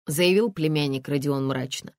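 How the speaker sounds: plain reading voice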